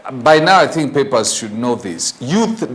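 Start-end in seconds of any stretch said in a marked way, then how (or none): 2.2-2.7 "Youth" said with no s on the end; singular, no S. Shown as a demonstration. Host correcting a newspaper's grammar, singular "Youth" without s. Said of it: "does not have a capital S".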